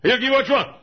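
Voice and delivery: high, loud mock with a laugh; mimicking what believers say, mocking; mocking church voice. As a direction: poke fun at easy theology. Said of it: "We say".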